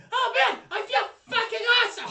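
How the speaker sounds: high, loud shout of elation; pumped-up, high-pitched shouting with laughter; hyped-up yell. Acted. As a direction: whoop it out like a pumped-up metalhead. Voices pumped-up character in game.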